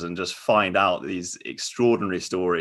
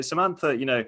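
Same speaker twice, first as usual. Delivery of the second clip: Louis asking; 6 semitones higher than usual. Retold or imitated. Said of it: "he'll sort of say".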